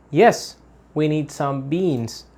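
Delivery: "yes" and "beans" stressed, slow, falling; slow falling answer; positive answer stress. Shown as a demonstration. Teacher modelling a positive answer, slow with stress. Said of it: "positive answer".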